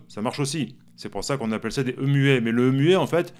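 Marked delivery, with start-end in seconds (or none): none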